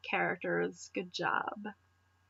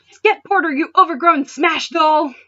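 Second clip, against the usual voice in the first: higher, louder bossy yell, slowing at the end; bratty yell; 6 semitones higher, 10 dB louder than usual. Acted. Ash ordering Zekrom to attack, a higher, louder bossy yell. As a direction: bark it at the dragon like a spoiled kid.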